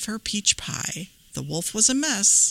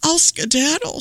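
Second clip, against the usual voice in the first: anguished wolf; 10 semitones higher, 3 dB louder than usual. Acted. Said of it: "said the wolf in anguish".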